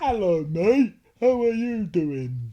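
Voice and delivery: high, loud imitation of his wife's Aussie voice; hammed-up Aussie hello, drawn out slow; mock Aussie greeting. Claiming his wife mocks his accent, high mock Aussie. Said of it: "Do we go".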